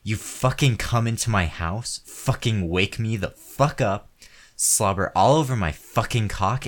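enraged man yelling at the woman who stopped; furious shouting. Acted. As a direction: scream it at her in full fury. Escalating furious rant at partner.

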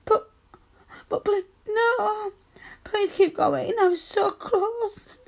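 drawn-out, whimpering plea; desperate pleading. Acted. Woman pleading with partner who stopped, desperate. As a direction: plead as if close to tears.

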